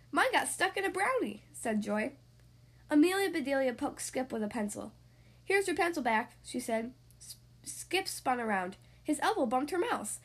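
lively picture-book storytelling voice; reading to children. Acted. Podcast host reading a story to young kids, lively storyteller. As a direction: tell it brightly for six-year-olds.

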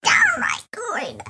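creaky granny voice, shouted out; old lady voice. Pretend. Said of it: "That's an old lady voice".

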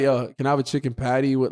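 low, casual ordering voice; own everyday voice. Shown as a demonstration. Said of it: "What is my voice?".

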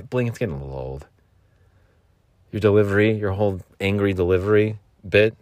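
a hint of a bored critic; mock critic. Imagined critic scolding host.

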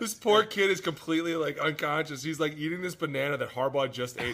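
laughing high-pitched outrage; high, loud disbelief. Retold or imitated. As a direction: squeal it in disbelief. Teammate shares bitten banana.

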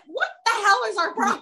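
imitating exasperated self-talk; mock exasperation. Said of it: "I was like".

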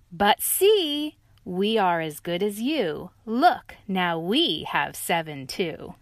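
prove we match you; excited dog and lion; excited reply. Acted.

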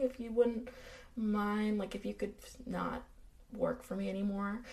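soft, halting, awkwardly polite let-down; hesitant gentle firing. Retold or imitated. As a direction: break it to him gingerly, pitch creeping up. Acting out John gently firing Lewis.

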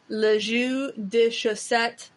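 slow French pronunciation of "le jus de chaussette"; French accent. Shown as a demonstration. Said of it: "the French phrase for weak coffee".

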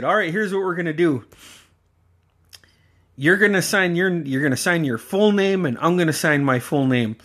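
a hint of a strict uncle; stern uncle. Uncle telling his nephew how to sign, stern.

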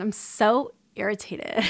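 light mock Valley Girl, a rising lilt on so; hint of a Valley Girl mocking the post; Valley Girl inflection. Shown as a demonstration. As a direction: mimic a bubbly, self-pitying Valley Girl. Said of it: "that little Valley Girl inflection".

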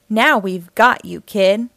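a hint of a burglar cornering his prey; menacing burglar. Harry the burglar cornering the boy, loud and menacing. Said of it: "Harry said".

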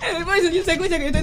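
fast, teary laughing talk; half crying with laughter. Real, not acted. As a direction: rush it out while laughing. Describing uncontrollable laughter.

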